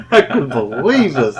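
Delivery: amused disbelief through a laugh. Real, not acted. Marvelling at his luck to the hosts, laughing.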